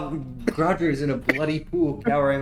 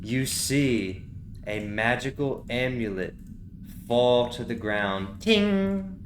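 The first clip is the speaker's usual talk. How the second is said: hushed scene narration; 3 semitones lower, slower than usual. A narrator's reading. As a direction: let the scene settle into the dust.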